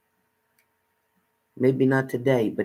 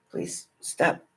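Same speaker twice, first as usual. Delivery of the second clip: breathy whispered please stop; 4 dB quieter than usual. Real, not acted. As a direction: hush it, half pleading. Pleading with someone at her hair.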